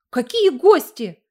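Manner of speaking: sharp, loud and slow, annoyed at guests; angry. A narrator's reading. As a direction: snap back angrily. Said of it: "разозлилась женщина".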